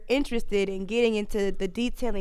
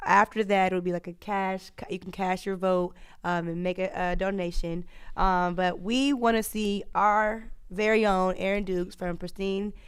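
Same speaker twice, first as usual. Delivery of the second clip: normal talking voice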